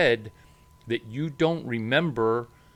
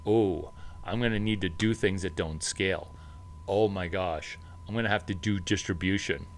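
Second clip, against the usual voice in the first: mock dismay; 5 semitones lower, 4 dB quieter than usual. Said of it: "stuck in the same situation of".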